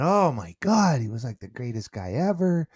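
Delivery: high, loud opening that settles; retold gushing. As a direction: imitate a daughter raving about her dad. Retold daughter gushing about dad.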